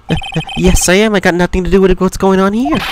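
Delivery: halting start, then a hurried denial; stumble, then rush the excuse out; anxious, fumbling denial; nervous stammerer. Acted. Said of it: "This guy is so nervous".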